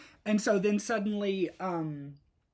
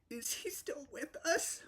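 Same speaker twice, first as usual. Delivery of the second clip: whisper; 8 semitones higher, 5 dB quieter than usual. Retold or imitated. Grieving mother asks the psychic.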